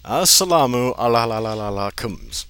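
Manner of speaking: lightly voiced singsong greeting; mock greeting. Cousin greets the teacher in a lightly voiced singsong. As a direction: trill the la la la lightly. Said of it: "said Mohammed's".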